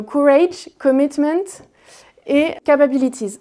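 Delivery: English words in a French accent; English with a light French accent. Shown as a demonstration. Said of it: "donc vous passerez mon accent".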